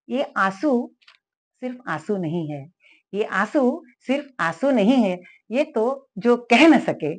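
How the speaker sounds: free verse recital. Shown as a demonstration. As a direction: let each line of the poem sink in. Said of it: "मैं पहले मुक्त छंद सुनाती हूँ". (धीमा, भावपूर्ण कविता पाठ)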